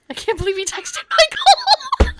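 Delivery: high, loud laughing whine. Retold or imitated. Whining to her husband in bed, laughing.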